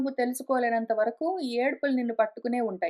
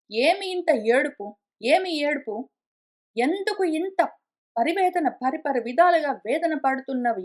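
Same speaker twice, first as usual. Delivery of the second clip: chiding questions. Acted. Guru questions a disciple's needless weeping, mildly chiding. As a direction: press the questions like a chiding teacher. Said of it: "అని చెప్తాను".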